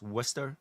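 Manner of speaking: Worcester said as WUS-ter, softly, no r before the s; correcting Westchester with Worcester as WUS-ter; Worcester said right. Shown as a demonstration. Correcting the New Yorker: Worcester as WUS-ter, not Westchester. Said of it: "it's not Westchester".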